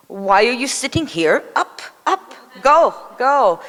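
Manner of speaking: excited summons, half laughing; urgent calling. Retold or imitated. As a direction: shoo them up eagerly, voice climbing. Baba calls them up urgently.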